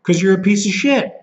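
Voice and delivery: high-pitched furious outburst. Real, not acted. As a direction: spit it out at the thief, pitch shooting up. Furious rant at thieves.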